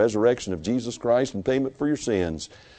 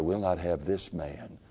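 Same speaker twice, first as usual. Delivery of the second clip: crowd's cry; 2 semitones lower, 8 dB quieter than usual. Acted. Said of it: "cried out to Pilate and said".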